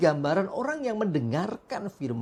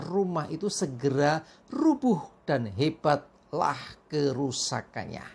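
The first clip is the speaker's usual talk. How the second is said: scripture reading. Acted. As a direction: read the passage deliberately. Reads the Bible passage.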